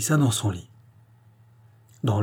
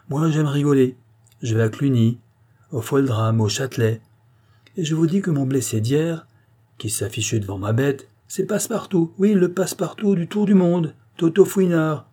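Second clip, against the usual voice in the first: excited Watman; 5 semitones higher than usual. Acted. Watman tells of the theatre.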